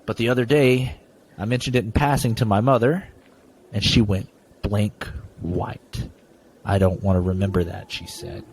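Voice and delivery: story reading. Acted. Continues reading the ghost story.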